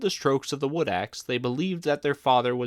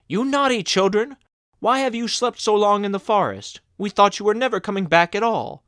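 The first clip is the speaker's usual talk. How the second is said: much higher, louder furious scolding; shrieking stepmother; 8 semitones higher, 6 dB louder than usual. A narrator's reading. Stepmother scolding the children who came home, furious shriek. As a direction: screech at the naughty children.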